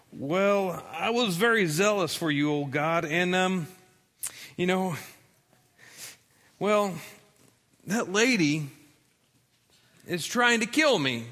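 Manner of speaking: a hunted man begging God for help; scared Elijah. Acted. Elijah, hiding in the cave, answers God in fear. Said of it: "he replied".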